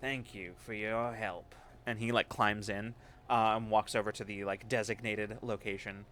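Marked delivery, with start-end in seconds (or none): 0.0-1.5 curt Galt thanks. Acted. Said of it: "Galt nods, says".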